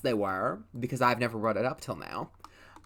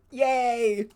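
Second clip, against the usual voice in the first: high squealed yay; celebrating the siblings making up; excited cheer; 9 semitones higher, 4 dB louder than usual. Real, not acted. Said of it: "celebrating the reconciliation".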